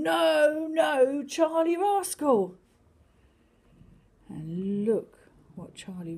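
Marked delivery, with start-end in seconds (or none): 0.0-2.5 loud high shout at the cat; fireman shouting. Acted. Fireman shouts at Charlie up the tree, loud. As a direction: call up the tree, scolding. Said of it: "the fireman shouting".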